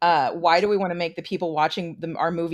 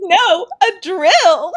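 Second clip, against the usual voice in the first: mock cheery, very loud, high chirping voice; 14 semitones higher, 10 dB louder than usual. Quoting the cheerful killer's line from a horror movie: imitating a cheerful voice. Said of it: "in a really, like, cheerful voice".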